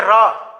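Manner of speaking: "र" as a full syllable, r plus short a; inherent vowel sounded. Shown as a demonstration. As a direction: let the vowel ring after the r in "र". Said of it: "आ का उच्चारण हो रहा है".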